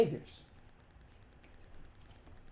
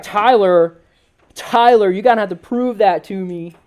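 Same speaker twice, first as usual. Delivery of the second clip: mocking doubter voice; 2 semitones lower, 5 dB louder than usual. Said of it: "I'm talking like that so that nobody tries to agree with it".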